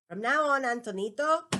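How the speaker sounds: loud, high, sharp command from a scolding father; stern angry father. Acted. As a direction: bark it at the boy across the lunch table. Father pointing knife, scolding son.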